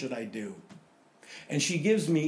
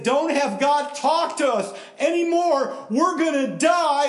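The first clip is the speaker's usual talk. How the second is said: much higher and louder, slow panicked cry; terrified plea; 12 semitones higher, 7 dB louder than usual. Acted. Israelites begging Moses in terror, high and loud. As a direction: beg in terror, slowly. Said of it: "and they said".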